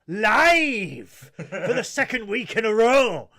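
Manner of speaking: loud, slow, laughing announcer call; hyped announcer. Acted. Host announcing the live show to viewers, loud and slow. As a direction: belt it out like a game show host.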